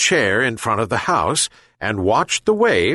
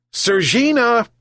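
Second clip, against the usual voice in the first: much higher, louder second call; louder repeat shout; 13 semitones higher than usual. A narrator's reading. Fisherman calls the missing cat again, shouting higher. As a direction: call again, pushing it up high. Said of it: "he shouted again".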